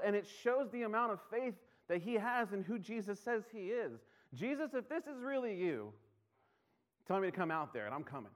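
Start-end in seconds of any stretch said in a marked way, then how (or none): 4.3-8.3 eager Peter. Acted. Peter voiced eager in sermon.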